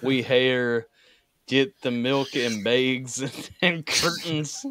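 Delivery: mock Canadian accent, drawn out; lightly exaggerated Canadian speech; imitated Canadian accent. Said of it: "He speaks like that".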